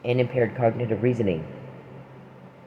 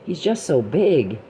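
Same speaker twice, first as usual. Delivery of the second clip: lightly voiced small boy, drawn out; slightly higher, slow, imitating an amazed child; little boy in awe; 4 semitones higher, slower than usual. Voicing little boy awed by angel.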